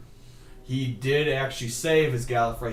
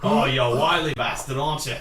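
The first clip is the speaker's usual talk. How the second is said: mock Australian; 3 dB louder than usual. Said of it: "Australian Wolverine".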